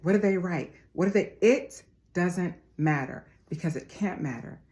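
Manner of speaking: rising, fervent pep talk to the family; motivational speech. Acted. A motivational speaker urging her viewers to move forward, fervent. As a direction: preach it like a life coach rallying followers.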